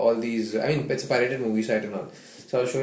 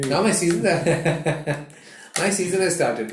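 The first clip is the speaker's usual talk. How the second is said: laughing; 3 semitones higher than usual. Real, not acted. Laughing about Goa trip season.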